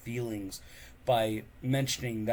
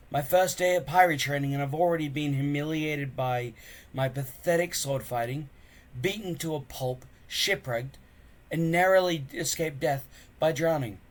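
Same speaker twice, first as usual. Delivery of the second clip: glum Hiccup; 5 semitones higher, 5 dB louder than usual. Acted. Hiccup listing woes.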